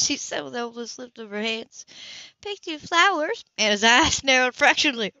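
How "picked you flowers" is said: high, loud, slow disbelieving echo; incredulous echo. Acted. Anna echoes Grace's words in amazed disbelief.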